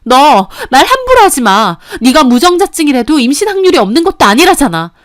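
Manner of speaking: wife shouting down her accusing husband; furious shout. Acted. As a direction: snap back hard, you're done taking this. Wife fights back at husband.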